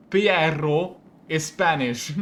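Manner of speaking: "Piero" loud and drawn out; emphatic contrast. Real, not acted. Player contrasting Piero with Pietro, slow loud emphasis. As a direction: say "Piero" slowly and loudly to set it apart.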